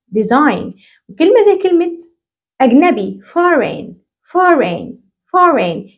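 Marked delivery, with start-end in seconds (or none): 0.1-0.7 "ديزاين" said dezain, the g left out; no g sound in "ديزاين"; silent g demo. Shown as a demonstration. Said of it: "بقولها ديزاين". 3.2-5.9 "foreign" said faren, no g at all; silent g demo. Shown as a demonstration. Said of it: "الجي ولا كأني شايفها".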